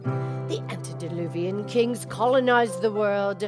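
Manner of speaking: put-on the speaker reads a song's lyrics in Scottish accent; Scottish accent recitation. She recites a singer's song in a mild Scottish accent. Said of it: "You do it again, please".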